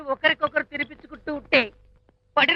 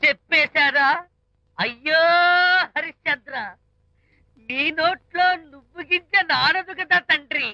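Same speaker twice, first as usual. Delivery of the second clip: mock tearful. Wailing friend takes mock-tearful leave.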